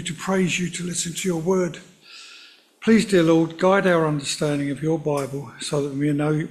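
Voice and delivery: earnest spoken prayer; praying. Acted. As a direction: lead the congregation in prayer. Opening prayer.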